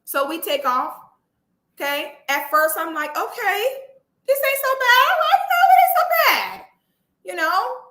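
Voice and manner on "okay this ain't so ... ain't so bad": nervous laughing reassurance. Retold or imitated. Nervous self-reassurance at takeoff.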